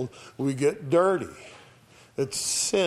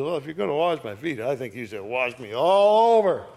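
eager enthusiasm; faster than usual. Acted. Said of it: "See that extreme enthusiasm".

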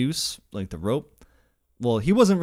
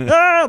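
loud, high comic yelp; imitated panicked scream; 12 dB louder than usual. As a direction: scream like you're being carried off by a horse. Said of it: "So he was just, like".

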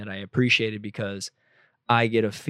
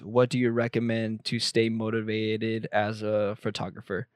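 flat robotic reading, like a machine. Real, not acted. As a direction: read it like a robot, monotone. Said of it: "Why did I just read that like a robot?".

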